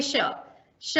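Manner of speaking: श repeated with a light whistle; whistling sh. Shown as a demonstration. Teacher repeating श to show its whistle. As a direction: hiss श twice like a soft whistle. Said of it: "सीटी की तरह आवाज निकल जा रही है".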